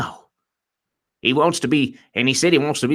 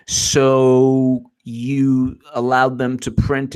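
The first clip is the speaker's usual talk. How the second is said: very slow, drawn-out questioner; mock questioning; much slower than usual. Imitating questioning of Comey about classified information, drawn-out. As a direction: drag out the opening words like a plodding interrogator.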